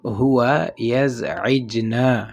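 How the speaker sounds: slow, careful teacher demo. Shown as a demonstration. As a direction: lay out each syllable. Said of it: "اور اگر آپ نے کہنا ہو". (آہستہ عربی جملہ)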